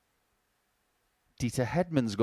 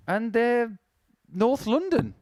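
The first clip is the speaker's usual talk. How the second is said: proud North London, slow and raised; lightly done Londoner; North London accent; 9 semitones higher, slower than usual. Retold or imitated. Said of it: "you speak to the Killingtons".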